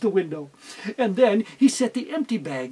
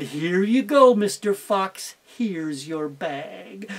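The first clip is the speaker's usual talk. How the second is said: sweet fake innocence; 3 semitones lower, slower than usual. Teacher to the fox, slow and falsely sweet. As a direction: hand it over sweetly, hiding the trick. Teacher hands over bag.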